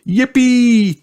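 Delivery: high joyful squeal; cheering. A narrator's reading. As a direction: cheer like a delighted child. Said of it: "cheered Peppa".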